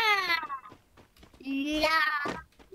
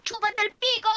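yelled insult; 7 semitones higher, faster than usual. Real, not acted. Kid yelling insult.

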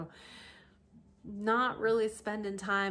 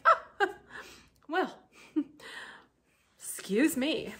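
laughing offended; 8 semitones higher, 3 dB louder, slower than usual. Pretend. Mock reaction to rude letter.

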